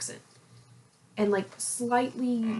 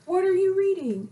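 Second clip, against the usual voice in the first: high imitated question; 9 semitones higher, 4 dB louder than usual. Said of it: "He's like".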